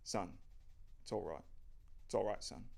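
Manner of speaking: lightly voiced kindly dad; warm father. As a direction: soothe your son warmly. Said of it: "Greg smiles warmly".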